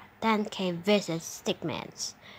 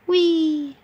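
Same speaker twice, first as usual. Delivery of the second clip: high gleeful squeal; 9 semitones higher, 7 dB louder than usual. Real, not acted. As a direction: squeal with glee. Fun slide.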